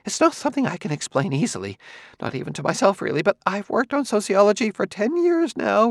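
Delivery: a hint of a scholar's sudden eagerness; jerky enthusiasm. A narrator's reading. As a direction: rush ahead in fits of excitement. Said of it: "A kind of jerky enthusiasm entered Quemot's voice".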